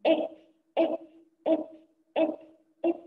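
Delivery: إك said as a short clipped ek with a silent vowel; sukun k sound. Shown as a demonstration. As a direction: hold the sukun on إك, just ek. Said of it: "ساكن على راسه سكون".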